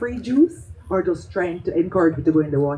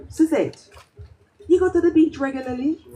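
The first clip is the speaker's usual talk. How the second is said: herbalist; 7 semitones higher than usual. Retold or imitated. Herbalist asks a question.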